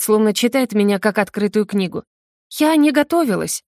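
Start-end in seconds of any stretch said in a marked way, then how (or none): 2.6-3.6 shy confession. A narrator's reading. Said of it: "признаюсь стыдливо".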